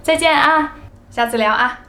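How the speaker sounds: 轻松随意地道别; casual goodbye chat. Shown as a demonstration. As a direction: play both friends signing off lightly. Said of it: "We usually end our conversations like".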